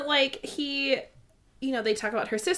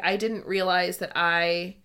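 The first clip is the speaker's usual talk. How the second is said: mildly heartbroken; 4 semitones lower than usual. Retold or imitated. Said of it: "I just had this heartbreaking moment".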